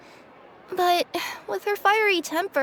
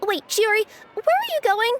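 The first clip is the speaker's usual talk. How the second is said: calling after her; 4 semitones higher than usual. Acted. Calls after departing friend.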